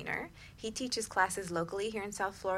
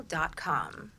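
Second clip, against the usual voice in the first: whisper; 3 semitones lower than usual. Real, not acted. Whispered web address end.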